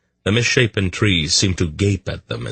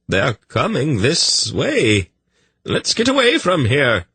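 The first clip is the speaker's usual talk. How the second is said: much higher, slow, alarmed; fearful urgency; 9 semitones higher than usual. A narrator's reading. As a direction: urge them to flee in fear. Tzadi fleeing the Raveners.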